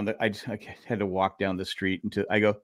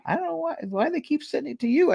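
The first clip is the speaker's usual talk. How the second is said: much higher, imitating a forgetful elderly neighbor; sweet old lady voice. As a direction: do the kindly old lady at the door, thanking you. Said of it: "And she goes".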